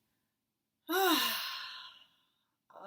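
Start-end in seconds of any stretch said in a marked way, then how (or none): 0.0-0.0 guided meditation. Acted. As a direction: lead them gently into stillness.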